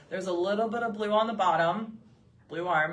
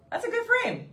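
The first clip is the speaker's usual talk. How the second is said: laughing; 3 dB louder than usual. Real, not acted. Laughs while praising frame.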